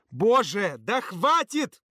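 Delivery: loud slow roar. Acted. Володя roaring at noisy kids, loud slow roar. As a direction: roar to silence the room. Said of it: "Володин рык катком".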